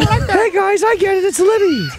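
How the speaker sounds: very high, light, high-pitched character voice. Recalling a yogurt-lid character named Liddy, doing a high-pitched Liddy voice. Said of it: "High pitched voice".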